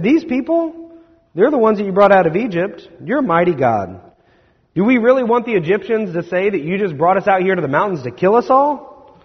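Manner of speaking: a high, urgent plea to spare the people; pleading Moses. Acted. Moses begs an angry God to spare the people, high pleading plea.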